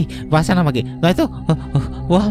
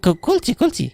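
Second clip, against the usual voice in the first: nervous stammer; 11 semitones higher than usual. Acted. Opening door at night, scared.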